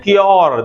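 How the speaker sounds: "क्योर" with a full o, kyor. Shown as a demonstration. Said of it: "हम बोलते हैं".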